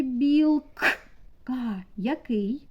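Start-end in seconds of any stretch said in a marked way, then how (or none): 0.0-0.9 "білка" broken at a forceful К; виділений звук к. Shown as a demonstration. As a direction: punch the К in "білка", apart from the rest. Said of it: "Четвертий звук в слові". (різке, відокремлене К у слові "білка")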